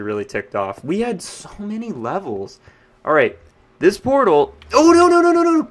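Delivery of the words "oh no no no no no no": high, loud alarmed "no, no, no"; real panic rising into a yelp; panicked no. Real, not acted. Portal just remembered broken, panics.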